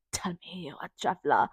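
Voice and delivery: whispered through a laugh; laughing ASMR imitation; mock ASMR whisper. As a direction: tease in a whisper. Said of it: "she's like".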